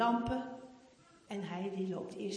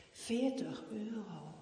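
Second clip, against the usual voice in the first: ordinary delivery, nothing marked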